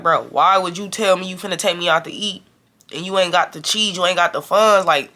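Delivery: irritated, getting loud. Retold or imitated. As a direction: confront the friend for coming without money. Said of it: "I'm kinda getting loud".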